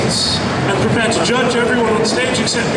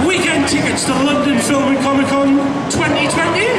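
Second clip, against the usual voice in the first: booming prize announcer; 2 semitones higher than usual. Acted. Host announcing cosplay prizes.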